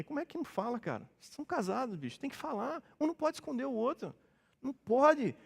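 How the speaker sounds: high-pitched, incredulous reproach; soft but high exasperated protest; exasperated counselling. Retold or imitated. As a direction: plead in disbelief with a friend, voice up high. Exasperated counsel to a married couple.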